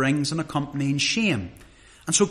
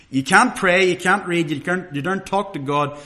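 mock scolding; 2 semitones higher, 4 dB louder than usual. Acting out the sin bin.

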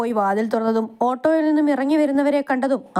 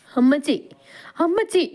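calling mother, second call much higher; crying out; 6 semitones higher than usual. Acted. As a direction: son cries out to his dead mother. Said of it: "അവൻ അവരെ കെട്ടിപ്പിടിച്ച് കരഞ്ഞു". (കരഞ്ഞു വിളിക്കുന്നു)

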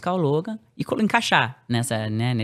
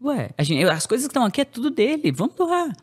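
eager; 10 semitones higher than usual. Retold or imitated. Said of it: "Eu falei assim".

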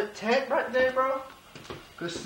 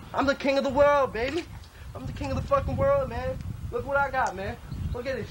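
cocky boast; 5 semitones higher than usual. Acted. Homeless designer brags to the camera, higher crowing boast. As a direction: puff up and crow like you own the street. Boasting about his life.

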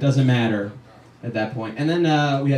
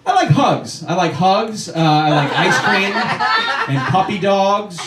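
mock sweet guy; 2 semitones higher, much slower than usual. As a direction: play the innocent sweetheart, sing-song. Mocking a nice-guy persona.

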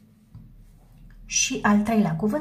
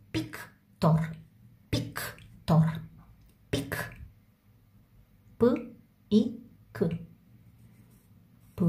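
whispered; 4 dB quieter, much slower than usual. Shown as a demonstration. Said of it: "teacher whispers word while writing".

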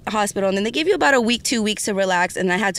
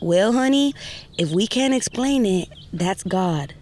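Southern phone lady; slower than usual. Retold or imitated. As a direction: let it land like a blessing. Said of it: "lady with a Southern accent".

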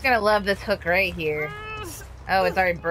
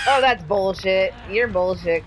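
frustrated outburst; 3 dB louder, slower than usual. Real, not acted. Survivor escaped, frustrated.

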